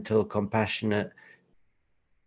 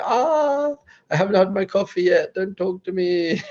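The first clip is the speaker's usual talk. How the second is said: high, loud cranky complaint; hammed-up pre-coffee grouch; grumpy whine; 10 semitones higher, 3 dB louder than usual. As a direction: moan like you're not a morning person. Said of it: "You're like".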